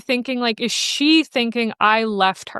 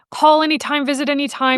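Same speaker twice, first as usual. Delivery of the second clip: higher-pitched imitated reassurance; retold eager reassurance; 5 semitones higher than usual. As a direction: imitate someone placating an upset caller. Retold staff soothing distressed volunteer.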